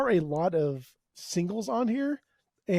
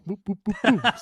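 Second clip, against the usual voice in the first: playful boops; 5 semitones higher than usual. Pretend. Playful mimicked noises after imagined quote.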